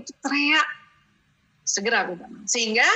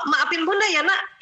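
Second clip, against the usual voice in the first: put-on asking the child; 5 semitones higher than usual. Shown as a demonstration. Mother asks her child to forgive her, pitched higher and pushier. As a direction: hand the job of forgiving to the kid, higher and pushier. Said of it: "itu kita nyuruh dia".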